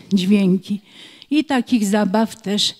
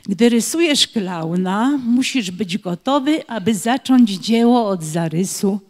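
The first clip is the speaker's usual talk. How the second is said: rhythmic verse, pausing before some rhyme words; children's poem reading. Acted. Teacher reads a clown-drawing rhyme for children to finish, rhythmic recitation. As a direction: recite it line by line, leaving gaps for the rhymes.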